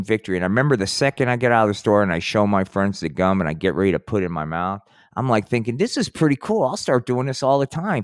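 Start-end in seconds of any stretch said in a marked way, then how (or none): 5.8-8.0 cocky delight. Acted. Acting his pleased thoughts as a kid.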